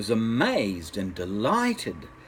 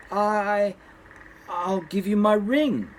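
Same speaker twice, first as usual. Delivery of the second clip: scared stammer; 7 semitones higher, slower than usual. Acted. Frightened stammer to strange man.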